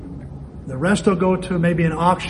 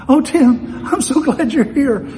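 higher, louder imitation of a crying accident victim; mock tearful woman; 8 semitones higher, 4 dB louder, slower than usual. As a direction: act out a shaken, weepy greeting. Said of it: "and she's crying".

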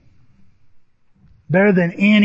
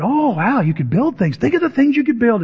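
lightly acted wowed counselor; higher, swooping encouragement; dreamy enthusiasm; 6 semitones higher than usual. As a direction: dream along with the student. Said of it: "she dreams with me".

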